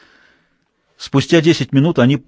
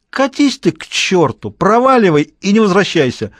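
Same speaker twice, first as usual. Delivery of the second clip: put-on drunk shouting; 8 semitones higher than usual. A narrator's reading. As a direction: bellow it like the town drunk. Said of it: "Раздался громкий пьяный голос".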